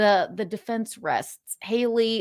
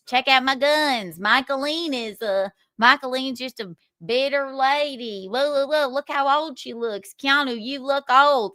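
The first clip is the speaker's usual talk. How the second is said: mock Southern accent; 4 semitones higher than usual. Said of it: "your fucking redneck accent".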